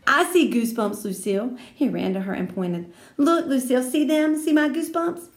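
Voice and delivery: put-on boy eager to impress Lucille. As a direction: show her eagerly. Sheldon eager.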